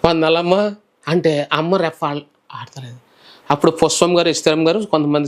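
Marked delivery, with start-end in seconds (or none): 0.0-0.8 greeting louder. Retold or imitated. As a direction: repeat వందనాలమ్మ louder with a rising end so she hears. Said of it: "వినపడలేదేమో". (వినపడేలా గట్టిగా వందనాలమ్మ)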